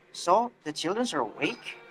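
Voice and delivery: surprised echo question, rising at the end. Shown as a demonstration. Answerer surprised by what the questioner said, surprised. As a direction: swing up on "awake" in surprise. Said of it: "the one who answered will have surprise".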